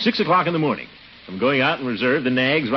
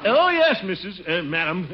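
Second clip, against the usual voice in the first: flustered; 6 semitones higher than usual. Acted. Flustered reply to landlady.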